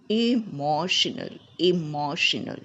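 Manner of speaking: "Emotional" as e-MO-sh-nal, said for learners to copy; repeat-after-me model. Shown as a demonstration. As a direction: model "Emotional" twice, stressing MO. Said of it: "Repeat it after me".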